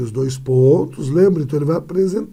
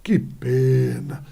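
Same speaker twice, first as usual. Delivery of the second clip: regretful; 4 semitones lower, much slower than usual. Shown as a demonstration. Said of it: "como falou assim".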